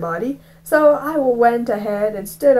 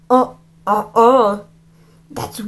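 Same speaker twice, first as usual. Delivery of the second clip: lightly voiced bully; 3 dB louder, slower than usual. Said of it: "Miller said".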